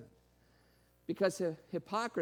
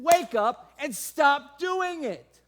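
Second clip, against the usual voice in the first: slow, much louder rebuke; calling out; 8 semitones higher, 12 dB louder, much slower than usual. Retold or imitated. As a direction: call them out firmly and slowly. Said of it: "That's what he's calling out".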